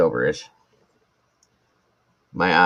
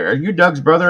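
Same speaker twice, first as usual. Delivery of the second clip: pitched-up curious question; high quizzical stranger; 10 semitones higher, 5 dB louder than usual. Retold or imitated. A stranger asking him in a pitched-up voice. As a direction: ask it like a puzzled stranger.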